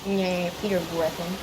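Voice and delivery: lightly voiced cartoon-dad announcer; a loose impression reading a mock TV promo; Peter Griffin. Gamer improvising a summer video promo, light Peter Griffin impression. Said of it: "Why am I speaking in a Peter Griffin accent".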